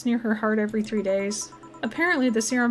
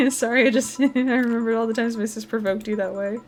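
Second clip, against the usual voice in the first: laughing apology. Acted. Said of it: "Are you laughing?".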